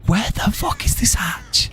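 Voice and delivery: exasperated. Real, not acted. Exasperated search.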